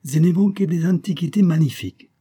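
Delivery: put-on high, loud Italian-accented boast; proud old Italian dealer, ringing out; proud proclamation. A narrator's reading. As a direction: boast grandly about your wares. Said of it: "proclama fièrement le vieillard".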